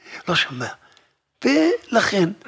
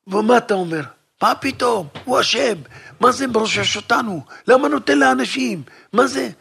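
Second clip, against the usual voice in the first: father's complaint, voice raised; angry father; 4 semitones higher, 4 dB louder than usual. Acted. Father complaining to the rabbi, raised and indignant. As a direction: protest that he's being ruined.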